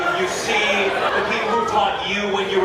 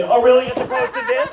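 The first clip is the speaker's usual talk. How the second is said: mock surprise; 6 semitones higher than usual. Mocking audience mic advice.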